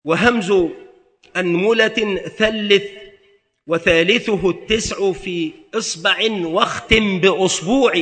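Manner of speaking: slow, measured recitation of a grammar poem; teacher reciting a mnemonic verse slowly; recited verse. Shown as a demonstration. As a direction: chant the rhyme slowly, line by line. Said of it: "كما قيل".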